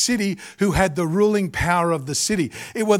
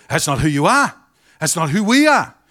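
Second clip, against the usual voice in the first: mock father correction; 6 dB louder than usual. Father correcting his sons.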